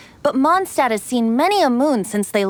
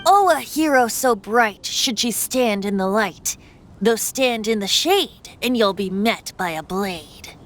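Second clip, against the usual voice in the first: bard's poem recital. Acted. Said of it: "getting written into a bard's poem".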